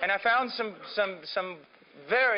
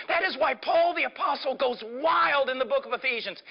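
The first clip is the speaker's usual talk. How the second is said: ordinary delivery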